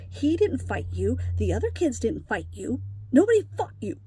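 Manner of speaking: retold scolding with hard emphasis; firm rebuke, punching key words; harsh, irritated. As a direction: drive the point home, a bit irritated. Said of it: "it sounded a little harsh here".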